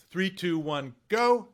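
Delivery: rising countdown, last word called out loud. Retold or imitated. Director to anchor on set, counting down to a loud go. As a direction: call the countdown, punch go. Retold countdown before taping.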